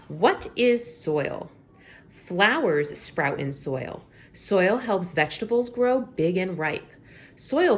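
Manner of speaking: slow, clear read-aloud; reading to children. Acted. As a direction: read each word slowly for young listeners.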